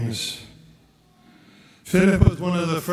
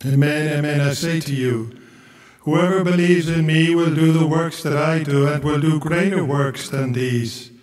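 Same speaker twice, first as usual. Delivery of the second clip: measured, solemn reading of scripture; gospel proclamation. Acted.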